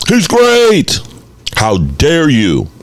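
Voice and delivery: high, sing-song mock of an outraged fan. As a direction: ham up the indignant Jimmy G fan. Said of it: "People are gonna say".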